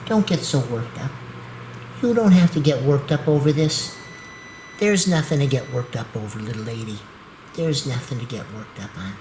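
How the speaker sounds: calm, reassuring words to a fretting dog; coaxing a nervous dog to sleep; soothing pet talk. Real, not acted. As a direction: settle her down gently.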